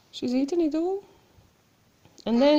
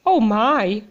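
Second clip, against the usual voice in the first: frightened cry; 4 semitones lower, 5 dB louder than usual. Acted. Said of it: "cried Goldilocks".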